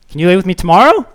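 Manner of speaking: put-on high, whiny little kid asking; a hint of a clingy kid; pleading child. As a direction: beg like a small child at bedtime.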